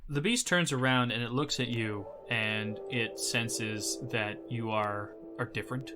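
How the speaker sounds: measured scene-setting with long pauses; game master narration. Acted. Game master describes the beast meeting the player, hushed suspense. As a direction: narrate the encounter gravely, letting phrases hang.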